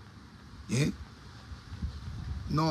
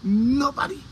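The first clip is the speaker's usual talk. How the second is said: incredulous rise; 4 semitones higher, much slower than usual. Real, not acted. Outraged repeated rhetorical question.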